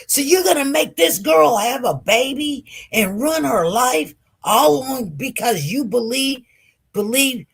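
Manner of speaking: mildly heated accusation; retold anger. Date accusing the mother over her daughter, mildly angry. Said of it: "he got angry with me too".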